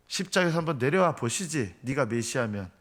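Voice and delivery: mildly taunting dare; lightly acted jeer that settles at the end; mocking. Crowd dares Jesus to come down, mildly mocking. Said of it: "이러면서 밑에서 끊임없이 조롱했던".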